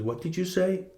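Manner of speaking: put-on indignant question, pitched well up; mock confrontation. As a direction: imitate an affronted bully demanding an answer. Angry man confronts him in story.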